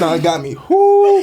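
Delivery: pained laugh, then a loud gasp; tongue on fire, half crying; mouth burning from spicy food. Real, not acted. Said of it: "that's actually burning".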